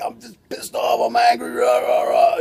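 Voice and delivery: hammed-up pissed-off shout; mock angry rant. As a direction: play-act blowing up in a rage, rah rah. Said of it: "you can be like".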